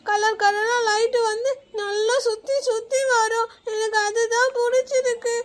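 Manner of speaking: put-on tearful, pleading little girl; crying child. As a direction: sniffle through the whole plea. Child keeps crying for the doll. (அழுதுகொண்டே கெஞ்சும் குழந்தை)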